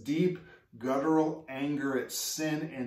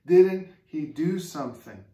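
high, loud exasperated questioning; bystanders' frustration; 7 semitones higher, 7 dB louder than usual. Retold or imitated. Bystanders questioning why Jesus didn't act, exasperated. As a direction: demand it, baffled and upset. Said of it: "and they're like".

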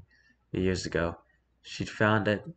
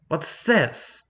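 higher, sudden gruff question; gruff bark; 8 semitones higher, 4 dB louder than usual. A narrator's reading. Old father questioning his daughter's pill, gruff and coarse. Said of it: "his voice gruff and coarse".

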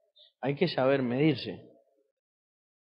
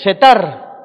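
Setar called out very loud; proclaiming the name; 2 semitones higher, 14 dB louder than usual. Real, not acted. Preacher loudly proclaiming Setar to the congregation. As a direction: shout the name Setar to the church.

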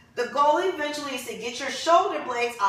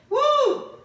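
excited whoop; 13 semitones higher than usual. Real, not acted. Cheering mid-workout.

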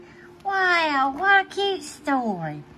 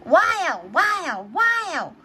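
echo; 6 semitones higher, much slower than usual. Acted. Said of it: "Peppa hears in the distance".

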